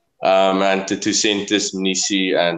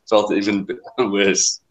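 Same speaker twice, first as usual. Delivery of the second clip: laughing; slower than usual. Real, not acted. Rueful laugh at losing bet.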